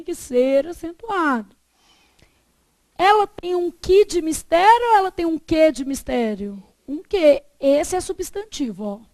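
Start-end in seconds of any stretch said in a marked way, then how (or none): 3.0-6.6 first "que" with an i sound, then "que" with an e sound; que said two ways. Shown as a demonstration. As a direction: contrast "ki" and "ke" for que. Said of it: "aqui ele é lido como e".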